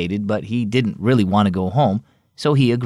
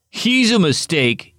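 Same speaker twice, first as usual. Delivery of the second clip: murmured; 6 semitones higher, slower than usual. A narrator's reading. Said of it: "Ethan murmured".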